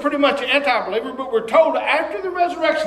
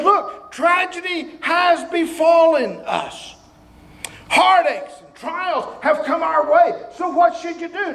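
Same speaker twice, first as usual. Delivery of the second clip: slow, higher preaching voice as James; voicing James; 5 semitones higher, slower than usual. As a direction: lift it up as the apostle. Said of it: "He says".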